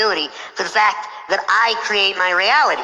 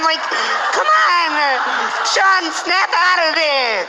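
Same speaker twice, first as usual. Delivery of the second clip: friend freaking out; 7 semitones higher, slower than usual. Retold or imitated. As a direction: yell to snap a friend out of it. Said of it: "he's, like, freaking out".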